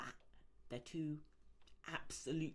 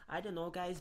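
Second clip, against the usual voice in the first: put-on Scottish accent; 7 semitones higher than usual.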